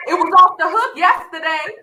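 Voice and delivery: calling out to rally the crowd; real yelling. Real, not acted. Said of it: "My bad, I'm yelling".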